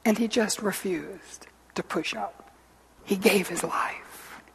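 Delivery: soft, slow, near-whispered telling; hushed solemnity. Real, not acted. Preacher tells of Jesus giving his life, hushed. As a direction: let the voice sink into reverent hush.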